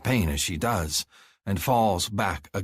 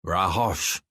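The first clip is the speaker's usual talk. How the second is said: warning. A narrator's reading. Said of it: "Vektal warns".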